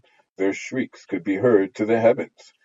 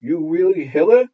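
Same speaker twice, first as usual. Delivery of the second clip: hollow, placid voice; 10 semitones higher, 8 dB louder than usual. Acted. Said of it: "in a hollow, placid voice".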